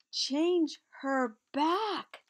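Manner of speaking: high and loud, stretched out slowly; pleading cry. Acted. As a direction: beg loudly, dragging every word. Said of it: "I cried".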